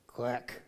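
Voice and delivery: a soft, half-hearted spoken quack; unconvincing duck quack; mock quack. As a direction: say quack like a puppet duck faking it. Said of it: "Can you quack?".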